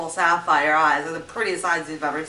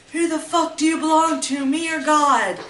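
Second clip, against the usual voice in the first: higher, louder mock yell at her; replaying the abuser's furious demand; retold angry yelling; 7 semitones higher, 5 dB louder than usual. Abuser yelling at her during the beating, angry. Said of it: "on top of me saying".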